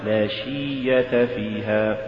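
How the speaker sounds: لا شية فيها with the kasra stretched, soft and slow; wrong chant; faulty. Shown as a demonstration. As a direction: overdo the vowel of شية. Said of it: "ولا تقل".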